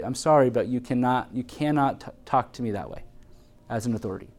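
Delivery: soft, low, steady correction; kind but firm. Shown as a demonstration. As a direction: say it gently but leave no doubt. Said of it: "tell them in a kind way".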